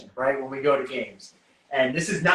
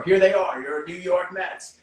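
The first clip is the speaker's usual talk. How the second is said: ballpark announcer voice; 3 semitones higher, 4 dB louder than usual. Retold or imitated. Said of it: "the first player get announced".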